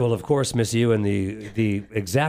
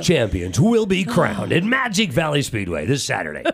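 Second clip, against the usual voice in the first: monster truck ad. Shown as a demonstration. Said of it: "I can't say it as good as you".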